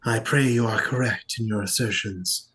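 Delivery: measured, formal warning with deliberate pauses; lightly voiced solemn envoy. Game master as envoy warning the players, solemn.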